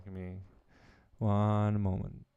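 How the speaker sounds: ordinary talk, nothing marked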